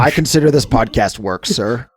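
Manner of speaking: loud, playful affront; mock indignation. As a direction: object with hammed-up dignity through a hoarse voice. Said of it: "All right, calm down".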